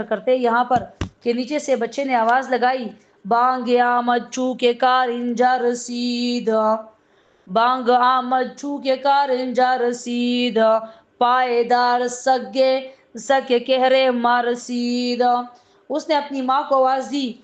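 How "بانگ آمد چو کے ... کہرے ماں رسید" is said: slow, drawn-out chant of a Persian verse; slow Persian verse chanted like a sermon couplet; poem recital. Acted. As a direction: intone each line of the couplet slowly.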